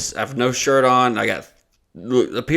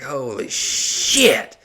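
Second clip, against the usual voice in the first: slow, drawn-out stunned curse; crashed rider stunned in the ditch; dazed awe; much slower than usual. Retold or imitated. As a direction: let it crawl out in shock.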